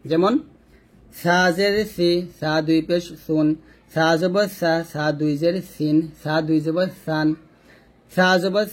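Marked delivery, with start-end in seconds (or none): 1.2-7.3 সা, সি, সুন with the tongue tip on the upper front teeth; touch the tongue tip to the upper teeth for each "স" in সা, সি, সুন. Shown as a demonstration. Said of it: "জিহ্বার আগারটা উপরে দাঁতে আগে লাগিয়ে উচ্চারণ করতে". (সা, সি, সুন জিহ্বার আগা উপরের দাঁতে লাগিয়ে উচ্চারণ)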